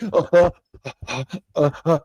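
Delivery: small acted breaths, evenly spaced; soft mock panting; quiet panting. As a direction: act out quiet little huffs. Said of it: "clean and quiet".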